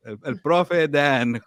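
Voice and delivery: words through laughter; laughing. Real, not acted. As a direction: giggle out the name. Teasing Dan, laughing.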